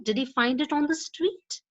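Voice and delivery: "Did he find it on the street?" rising at the end; rising yes-no question. Shown as a demonstration. Teacher demos a yes-no question rising at the end. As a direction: lift "street" up as a real question. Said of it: "often have a rising end".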